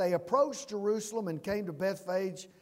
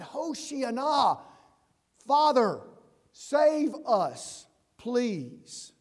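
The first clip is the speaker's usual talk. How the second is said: Hoshiana drawn out slowly, then a louder Father; pleading cry; 3 semitones higher, 3 dB louder, much slower than usual. Retold or imitated. Pastor voicing people begging the Father, pleading.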